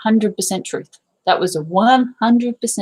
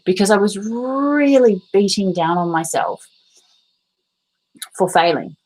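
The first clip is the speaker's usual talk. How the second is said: whisper. Real, not acted. Confessing self-punishment.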